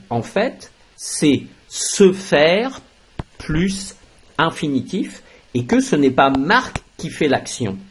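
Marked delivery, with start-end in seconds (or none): 1.0-2.8 "se faire" stretched out slowly; slow emphasis. Shown as a demonstration. Teacher stressing "se faire" for students, slowly. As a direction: lean on "se faire" to show the structure. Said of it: "Vous voyez que".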